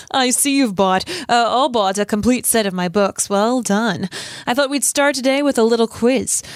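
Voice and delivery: lightly put-on TV news voice; a touch of sing-song self-regard; Gilderoy Lockhart. Podcast host reads Lockhart's quiz speech, lightly voiced smug character. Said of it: "love your Gilderoy Lockhart voice".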